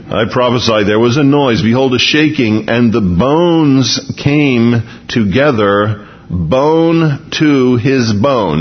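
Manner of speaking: slow, measured reading of the verse; scripture reading. Acted. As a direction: draw the last phrases out slowly. Rereads the scripture passage slowly.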